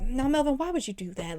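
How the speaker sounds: soft, weary imitation of mom; exhausted mom. Mom half-heartedly scolding Melvin for her daughter, exhausted. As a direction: let the scolding fade out, worn out. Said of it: "she just be sounding so exhausted".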